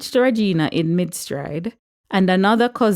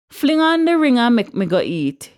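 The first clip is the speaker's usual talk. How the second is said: raised, high Jamaican patois holler; loud shout; 6 semitones higher, 4 dB louder than usual. A narrator's reading. Uncle hurrying the wedding along to eat, shouting. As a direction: holler it impatiently across the church. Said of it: "he shouted loudly".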